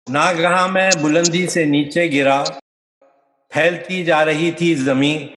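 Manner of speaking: measured nazm recital in short, paused phrases; poetry recitation. Acted. Poet performing his three-act dramatic nazm, recited. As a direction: recite line by line with deliberate cadence.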